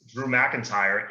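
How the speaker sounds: badly faked Scottish accent, drawn out slowly; slow, hammy attempt at a Scottish accent; horrible Scottish accent. Co-host naming the wrestler Drew McIntyre, horrible Scottish accent. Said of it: "That was a horrible Scottish accent".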